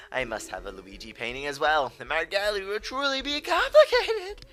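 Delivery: hammy villain reading boss lines; King Boo voice. Acted. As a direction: gloat like a smug cartoon ghost king. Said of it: "I really enjoy the way I read final bosses".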